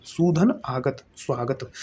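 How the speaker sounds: सूधन आगत drawn out, then स्वागत soft; slow sandhi demo. Shown as a demonstration. Teacher showing students a sandhi join, slow then soft. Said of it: "ये हो जाएगा स्वागत".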